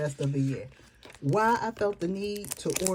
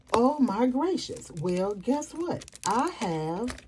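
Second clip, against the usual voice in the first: surprised; 5 semitones higher, slower than usual. Real, not acted. Delighted discovery of planner system.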